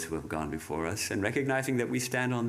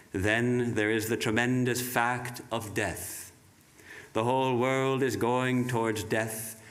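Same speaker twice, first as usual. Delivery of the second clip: solemn reading; 2 semitones higher than usual. Acted. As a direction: proclaim each phrase with weight. Reads Vivekananda's words.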